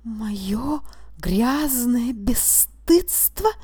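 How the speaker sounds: whispered, slow, dazed question; as if struck on the head, whisper it back; stunned whisper. A narrator's reading. Stunned witness repeating the judge's words, whispered. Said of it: "хватили обухом по голове".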